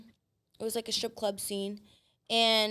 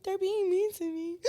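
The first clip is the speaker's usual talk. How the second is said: a hint of a hammed-up little-girl whine; mock whiny complaint; 9 semitones higher than usual. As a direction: play the victim with a light whimper.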